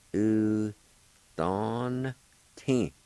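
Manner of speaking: U, don, tin said slowly syllable by syllable; Cherokee syllables. Shown as a demonstration. Teacher sounding out U, don, tin for learners. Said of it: "like this".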